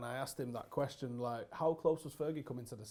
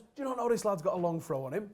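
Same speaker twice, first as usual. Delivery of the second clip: mock furious yell, higher and louder; retold angry yell; 6 semitones higher, 8 dB louder than usual. Fergie tearing into Pallister after Neville's debut, with a loud mock yell. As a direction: bawl it out like a raging manager. Manager rants in dressing room.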